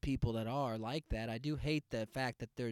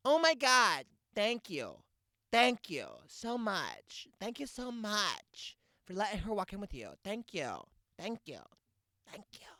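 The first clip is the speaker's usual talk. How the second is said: much higher, gushy thank-yous fading out; imitating a cheer mom's fading thanks, much higher; gushing thanks; 6 semitones higher than usual. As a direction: pour out thanks like a relieved mom, trailing off. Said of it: "mom voice thanking".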